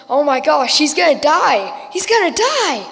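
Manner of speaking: panicked. Acted. Girl panics watching him drown.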